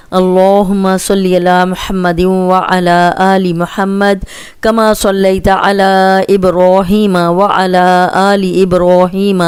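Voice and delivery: slow, measured Quranic recitation; slow devotional recitation; recited supplication. Acted. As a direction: chant the durood slowly and evenly. Slow recitation opening the lesson.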